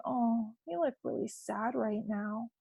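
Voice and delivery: soft, quiet, matching their sadness; gentle empathy. Shown as a demonstration. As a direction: say it softly, mirroring the sad child. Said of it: "if your child is really sad".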